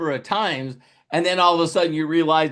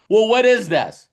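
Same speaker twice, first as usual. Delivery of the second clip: louder, higher question; puzzled friend; 5 semitones higher, 6 dB louder than usual. Pretend. Friend on the phone, surprised louder question. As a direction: sound caught off guard.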